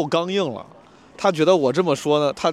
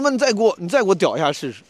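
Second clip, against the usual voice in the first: 复述挑衅; 4 semitones higher than usual. Retold or imitated. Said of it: "我说".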